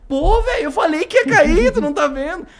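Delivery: high, loud scolding; exasperated outburst. Retold or imitated. Driver scolding the man after the wheel fell, exasperated.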